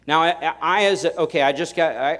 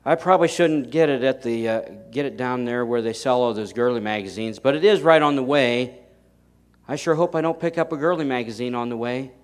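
foolish self-talk; 4 dB louder than usual. Retold or imitated. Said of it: "I'd be a moron to say".

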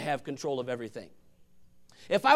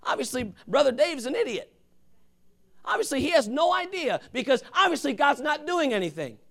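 mock grumbling; 4 semitones higher than usual. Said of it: "you might get upset, say".

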